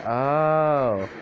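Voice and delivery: long, drawn-out oh; acted knowing realization. She sees it and smiles shadily, drawn-out knowing oh. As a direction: stretch out a knowing oh.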